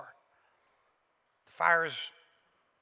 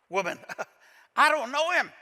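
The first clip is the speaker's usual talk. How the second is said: nervous laughing denial; 4 semitones higher, 4 dB louder than usual. Acted. Peter to the servant girl, laughing denial. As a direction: laugh it off, a little higher and louder.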